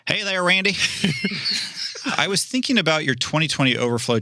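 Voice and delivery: lightly put-on Southern accent. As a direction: read it in a mild Southern accent. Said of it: "I'll just do it with my Southern accent".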